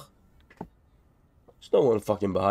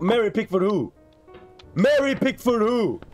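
incredulous; 9 semitones higher than usual. Real, not acted. Incredulous repeat of name.

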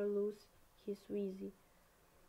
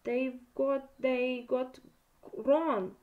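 loud, stammered alarm; gasped; 4 semitones higher, 8 dB louder, slower than usual. A narrator's reading. Harry realises his friend is taken, gasped. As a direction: force it out in shock, louder. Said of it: "Harry gasped".

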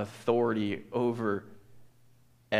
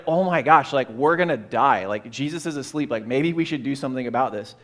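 loud, mock-panicked babble; hammed-up alarm at the storm; frantic chatter, half joking; panicky disciples; 6 dB louder than usual. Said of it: "they're like".

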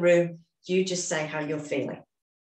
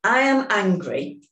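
slow, deliberate setup statement, every word placed; measured tapping affirmation; slow affirmation for repeating; 4 semitones higher, 5 dB louder than usual. Shown as a demonstration. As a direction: say it so they can echo you. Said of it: "start repeating after me".

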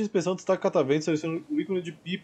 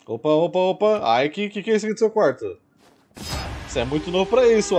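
loud, higher startled exclamations; surprised; 5 semitones higher, 4 dB louder than usual. Real, not acted. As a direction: react loudly in mock shock. Streamer reacting to found item.

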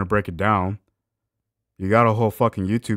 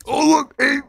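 much higher, louder sarcastic cheer; mock excitement; 13 semitones higher, 5 dB louder than usual. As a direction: fake delight at finding the study. Mocking excitement at the study.

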